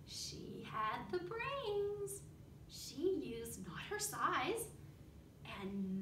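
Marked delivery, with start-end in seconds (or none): 0.1-2.2 slow hushed whisper. Real, not acted. Teacher whispering the lesson to the class. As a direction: whisper it like a secret.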